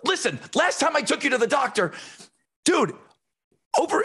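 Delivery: high, shouty imitation of arguing relatives; mother and sister bickering at dinner, high mock shout; mock family bickering. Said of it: "they start getting into it".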